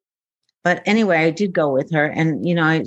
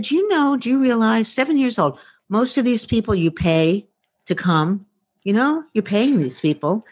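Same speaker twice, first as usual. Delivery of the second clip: put-on higher, earnest child lecturing her mom; imitating a little daughter; 4 semitones higher than usual. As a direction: play a seven-year-old scolding mommy. Seven-year-old daughter lecturing mom.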